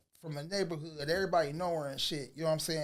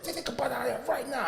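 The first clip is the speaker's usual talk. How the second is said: higher-pitched imitation of an impatient dad; retold insistent order; 5 semitones higher, faster than usual. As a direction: stammer into a firm repeated command. Father repeats order more insistently.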